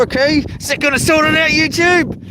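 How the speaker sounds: high, sarcastic jab at YouTube; mock sarcastic rant. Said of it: "Just joking".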